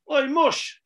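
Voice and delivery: loud, high call across the room; mock shout. Councillor calling the waiter in a five-star hotel, loud mock holler. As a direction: imitate him hollering at the waiter. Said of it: "He's shouting".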